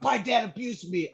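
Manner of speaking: high mock-tearful whine; a touch of a blubbering junior; imitating bawling. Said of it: "bawling out".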